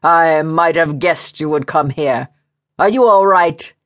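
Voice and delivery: lightly voiced angry man, rising into the question; gruff, agitated man. Man scolds the woman he has found, mildly agitated. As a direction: demand it as a worried, cross man.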